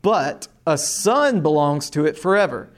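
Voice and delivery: steady, measured Bible reading to a class; teacher reading the Gospel aloud to the class; scripture reading. Acted. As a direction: read the passage clearly for students to follow. Teacher reads scripture passage aloud.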